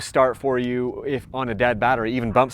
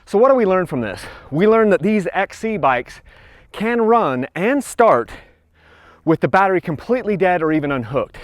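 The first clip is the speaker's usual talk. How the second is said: out of breath; 5 semitones higher than usual. Real, not acted. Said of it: "sorry, I'm winded".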